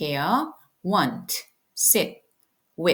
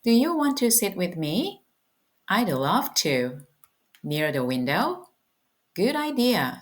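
slow, carefully spaced English lines; slow model dialogue; 2 semitones higher, much slower than usual. Shown as a demonstration. Teacher reading a sample dialogue to students, slow and clear. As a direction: act out the dialogue slowly for learners. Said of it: "한번 들어보실게요".

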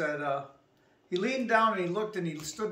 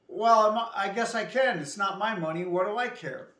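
retold manager, louder and higher, shrugging it off; mock indifferent manager; 4 semitones higher, 5 dB louder than usual. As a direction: play the manager who couldn't care less. Manager says he doesn't care.

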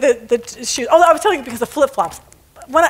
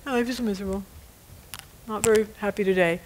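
mopey complaint; 4 semitones lower, 9 dB quieter, faster than usual. Retold or imitated. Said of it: "stop moping around".

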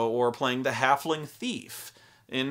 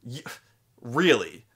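incredulous wizard; slower than usual. Retold or imitated. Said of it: "he starts laughing at me".

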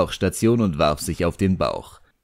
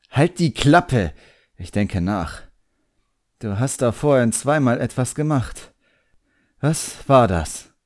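put-on higher, quick, impatient boy voice; a proud young magician snapping back at his demon; brisk, higher young voice brushing off the worry; the boy, irritated; 6 semitones higher than usual. A narrator's reading.

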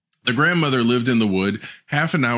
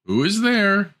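grandmother calling; 10 semitones higher, slower than usual. Acted. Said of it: "called out the grandmother".

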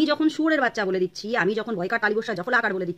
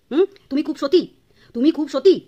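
sarcastic; 3 semitones higher, 5 dB louder than usual. Real, not acted. Mocking the aunt's virtue.

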